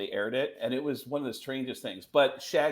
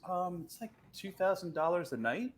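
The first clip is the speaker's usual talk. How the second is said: John Frusciante; 6 semitones higher, 4 dB quieter than usual. Retold or imitated. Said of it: "And he goes".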